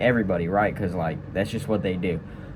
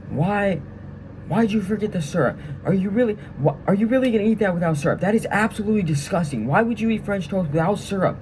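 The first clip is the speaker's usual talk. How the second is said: sergeant yelling; 9 semitones higher than usual. Retold or imitated. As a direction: bark it up high like a sergeant teasing a recruit.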